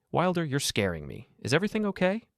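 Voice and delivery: rising high with worry; plead, frightened for her sister; alarmed sister. Acted. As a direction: sister pressing the husband, anxious.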